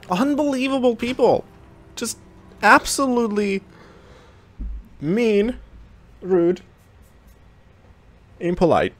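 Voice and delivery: indignant rant. Real, not acted. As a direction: list their faults, scandalised. Indignant complaint after trade.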